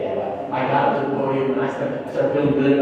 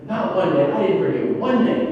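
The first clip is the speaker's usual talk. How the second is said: put-on higher, louder, slower proud boy; proud child; 8 semitones higher, 5 dB louder, slower than usual. Son telling his dad he remembered every name, proud and higher. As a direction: announce it like a proud little boy.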